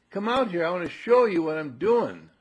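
put-on high, loud eager child; acted kid urging Mom outside; boy calling Mom out. Demonstrating boy's request to mother.

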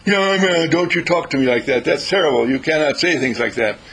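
imitating an offended friend's protest; indignant objection. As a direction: scold him for talking like that.

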